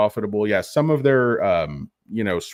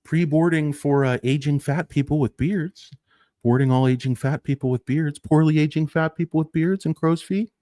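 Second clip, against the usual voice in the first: gate announcer; 6 semitones higher than usual. Pretend. Mock airline boarding announcement.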